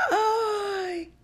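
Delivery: high delighted gasp of "ay"; emocionado. Acted. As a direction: let out a high, drawn-out thrilled ay. Storyteller gasps as delighted Matías. (ay agudo de emoción)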